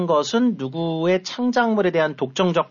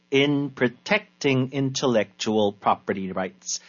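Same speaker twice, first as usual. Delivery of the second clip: very slow, word-by-word teaching read; slow dictation; 2 semitones lower, much slower than usual. Shown as a demonstration. Teacher breaking a sentence down for learners, slow dictation. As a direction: spell out each chunk slowly for learners.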